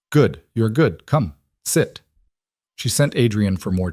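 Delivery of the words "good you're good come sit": a hint of an Odessa accent, welcoming; thick Ukrainian accent. Mother welcoming son's girlfriend, light Ukrainian accent. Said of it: "her accent thick".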